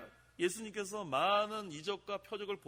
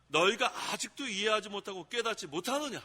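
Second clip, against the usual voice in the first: rebuke; 3 semitones higher, 3 dB louder than usual. Shown as a demonstration. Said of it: "또 책망하시는 거예요".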